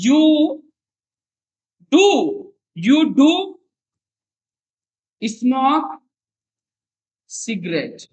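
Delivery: you do, do held apart; stress on do. Shown as a demonstration. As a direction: lean on do word by word. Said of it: "इस तरह से बनाते हैं". (do पर ज़ोर देकर)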